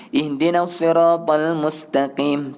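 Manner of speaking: slow chanted "Ihdinas siratal mustaqim" with a clear "ta"; measured Quranic recitation, clear "ta" in "mustaqim"; recitation showing ta. Shown as a demonstration. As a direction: recite "mustaqim" slowly, placing the "ta" cleanly.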